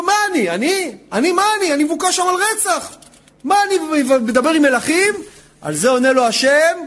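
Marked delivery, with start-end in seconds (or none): 0.0-5.1 higher-pitched, questioning objection; incredulous protest. Acted. Moses objecting to God about facing Pharaoh, incredulous protest. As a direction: protest as if unfit for the job.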